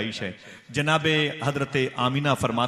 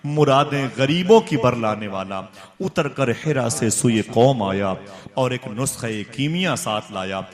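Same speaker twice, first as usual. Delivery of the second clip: recited verse; 4 dB louder than usual. Acted. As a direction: recite the couplets with force. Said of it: "Altaf Hussain हाली कहता है". (शायराना अंदाज़ में ज़ोरदार पाठ)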